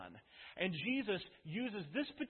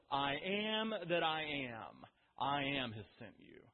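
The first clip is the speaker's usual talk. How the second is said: slow, solemn divine voice saying "I am that I am"; voice of God; 3 semitones lower than usual. Acted. The Lord slowly telling Moses his name. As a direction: draw out "I am that I am" slowly, like God speaking. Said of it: "And the Lord says".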